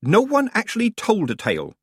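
put-on chirpy old witch; Nanny Ogg voice.

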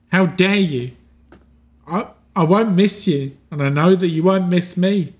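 lightly voiced spurned inner self, hurt and reproachful; a hint of a wounded figure accusing the hero; bitter dying figure. Dying figure accuses the one who killed him, lightly voiced and hurt. NPC's bitter parting speech.

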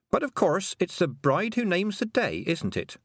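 high, cheerful lilt; breezily cheerful girl. A narrator's reading. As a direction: say it brightly, pitched well up. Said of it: "said Tiffany cheerfully".

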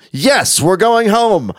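high, drawn-out jubilant cry; hammed-up triumphant cheer; excited cheer. Characters cheer at smell of home.

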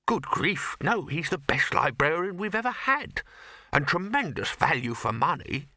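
earnest protest. Acted. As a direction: protest on a colleague's behalf. Bursar earnestly defends librarian.

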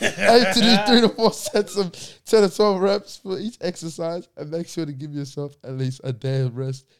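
AI assistant voice. Retold or imitated. Reading out the AI's reply.

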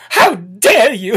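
How dare you? dragged out slowly, dare held long; slow mock outrage. Shown as a demonstration. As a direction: stretch every word of How dare you? in mock indignation.

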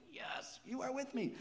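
jumps high on the second line with a bright cry; an excited yes to God. Real, not acted. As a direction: burst out in joyful agreement. Pastor exclaims back to God.

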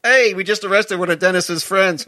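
high, loud announcement; acted calling out. Cop announcing the arrest to the others, acted holler.

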